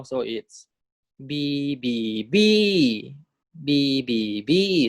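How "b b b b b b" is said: teacher drilling the rising tone on b. Shown as a demonstration. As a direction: climb "b" up into the rising tone. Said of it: "第二标".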